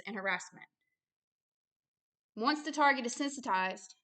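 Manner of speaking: measured, even reading voice; reading aloud. Real, not acted. Minister reading out how targets get harassed, measured. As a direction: read the document out carefully, phrase by phrase. Reads a written passage aloud.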